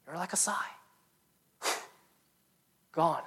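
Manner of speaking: breathy hushed whisper on "sigh"; hushed whisper, barely voiced. Real, not acted. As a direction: let "You're like a sigh" fall to a whisper. Whispered image of fleeting life.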